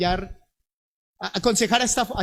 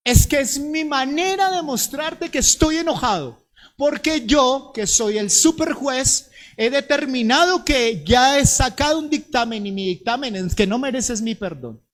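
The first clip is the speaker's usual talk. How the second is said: higher and louder mock pronouncement; self-righteous judge; 4 semitones higher, 4 dB louder than usual. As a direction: pronounce it like a pompous superjudge. (juez soberbio que dicta sentencia)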